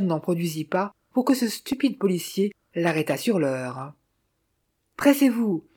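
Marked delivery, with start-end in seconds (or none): 5.0-5.6 higher, mildly raised bark; narrated captain's yell, restrained; shouting. A narrator's reading. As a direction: order him to hurry, shout held back. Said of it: "hurla Bliss".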